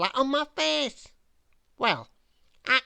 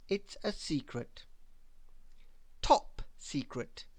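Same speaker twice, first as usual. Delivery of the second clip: hushed secret; 6 semitones lower, 7 dB quieter than usual. A narrator's reading. Keeping the secret.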